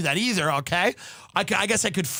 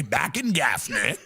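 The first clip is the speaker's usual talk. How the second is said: father's saying; 5 semitones lower, slower than usual. Retold or imitated. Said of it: "My father used to say".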